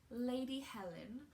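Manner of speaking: put-on a weak stab at a posh British accent on Lady Helen; lightly put-on British accent for the court lady; awful British accent. Booktuber introducing Lady Helen in a bad British accent. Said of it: "that was an awful British accent".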